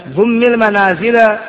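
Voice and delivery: ضم المنازل with the mim said dummi, slow; Arabic: ضمِّ بالكسر; kasra on dumm. Shown as a demonstration. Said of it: "ثلاث أوجه".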